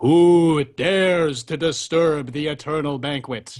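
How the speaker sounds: booming, resounding, loud big voice. Narrator voices the voice that speaks out across the table, booming voice. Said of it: "a booming voice speaks out across the table".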